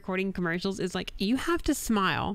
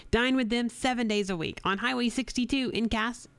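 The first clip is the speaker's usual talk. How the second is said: radio ad read. Acted. Reads radio ad copy.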